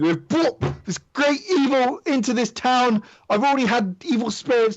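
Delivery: shouting in character voice. Voicing the Baron, who puts his dagger down: shouting at the group. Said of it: "kind of shout at all of you".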